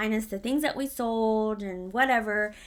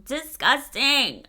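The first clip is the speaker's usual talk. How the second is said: DISGUSTING stretched out slowly; slow, emphatic "disgusting", dwelling on each syllable; drawn-out disgust; 2 semitones higher, 4 dB louder, much slower than usual. Real, not acted. Storyteller recalling her gross manager, drawn-out disgust.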